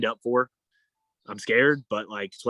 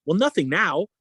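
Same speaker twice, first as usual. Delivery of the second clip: sarcastic; 6 semitones higher than usual. Retold or imitated. Sarcastic reply about safe word.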